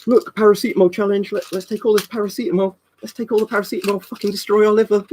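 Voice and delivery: high-pitched mock dumb kid. Streamer mocking kids daring each other with pills, dumb kid voice. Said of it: "I'm gonna be a fucking dumb kid".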